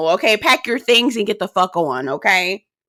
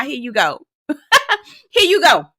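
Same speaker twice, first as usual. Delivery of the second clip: laughing exasperation; 5 semitones higher than usual. Real, not acted.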